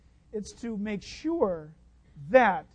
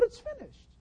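crying out; 13 semitones higher, 9 dB quieter than usual. Retold or imitated. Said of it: "He cries out".

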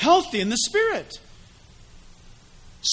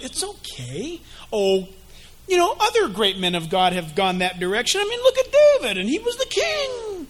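sly tempter; 2 semitones higher than usual. Acted. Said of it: "Satan's going".

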